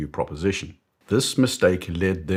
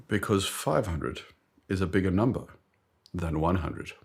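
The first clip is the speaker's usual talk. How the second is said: British boss. Acted. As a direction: spell it out in a British accent. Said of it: "I d-, don't know why he's British".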